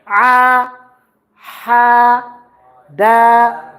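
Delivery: a, ha, da drawn out slowly; pausal long a. Shown as a demonstration. Teacher shows how to stop on a word, lengthening the vowel. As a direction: hold the long a with no n. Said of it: "Then when you stop, you say".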